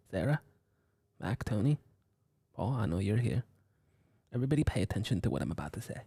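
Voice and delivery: lightly voiced self-important businessman; soft-spoken boss telling the crew to chillax; Alex the businessman voice. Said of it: "This is Alex the businessman talking again".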